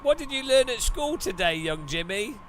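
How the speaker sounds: high, sugary parent; sweet parent voice. Pretend. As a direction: coo at the child. Parent asks child.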